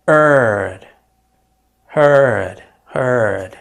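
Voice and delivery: heard with a long er vowel. Shown as a demonstration. Teacher drilling heard for learners. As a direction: say heard as hurd, er stretched. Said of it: "ال E وال A يدوني هذا الصوت".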